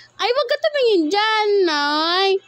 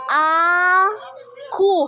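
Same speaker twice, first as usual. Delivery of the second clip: put-on cooing for baby to copy. Shown as a demonstration. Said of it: "Gayahin mo".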